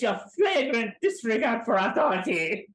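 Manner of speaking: hammed-up imitation of a pompous Frenchman; over-the-top French officer. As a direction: proclaim it as comic outrage. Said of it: "like, the way he said it".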